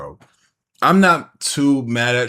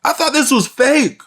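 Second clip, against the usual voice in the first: high, drawn-out disbelief; real astonishment; 10 semitones higher than usual. Real, not acted. Viewer finding out the clip is real, astonished. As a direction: let the pitch soar, then drop at the end.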